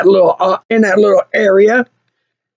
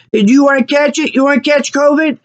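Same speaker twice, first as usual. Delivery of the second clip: imitated goading taunt, higher pitch; 4 semitones higher than usual. Mechanics to a frightened customer, mock taunting. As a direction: goad someone, pushing it on them.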